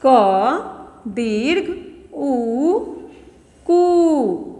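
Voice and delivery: very slow, drawn-out spelling of क दीर्घ उ. Shown as a demonstration. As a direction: stretch each syllable for the children. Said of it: "इसे क्या पढ़ेंगे हम".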